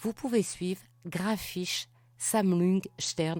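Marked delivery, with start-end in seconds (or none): 1.1-3.4 clumsy, atrocious German accent. A speaker names a collection to follow on Facebook, atrocious German accent. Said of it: "mon accent allemand est tellement atroce".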